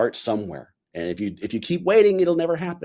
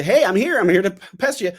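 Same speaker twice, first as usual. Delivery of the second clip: pesky inner voice; 8 semitones higher, 5 dB louder than usual. Acted.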